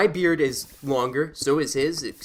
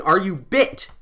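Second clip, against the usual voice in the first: higher, half-strength demo shout; mock shout; 4 semitones higher, 4 dB louder, slower than usual. Shown as a demonstration. Advising listeners harassed for change, mock shouting. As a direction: call it out like a challenge. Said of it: "just start shouting".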